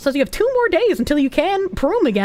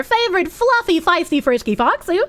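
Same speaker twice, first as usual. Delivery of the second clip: high showy announcer flourish; 9 semitones higher than usual. Pretend. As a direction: deliver it like a host. Announcer-style alliterative thanks.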